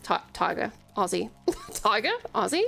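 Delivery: testing out the Aussie pronunciation; low Australian-accented tryout. Shown as a demonstration. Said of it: "randomly turn up the Aussie".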